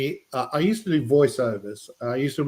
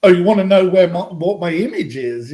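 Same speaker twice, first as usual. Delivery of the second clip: louder mock-indignant outburst, half-hearted; mock angry AI; 4 semitones higher, 6 dB louder than usual. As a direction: play an AI with attitude snapping back, loudly. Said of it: "if it starts getting a bit angry".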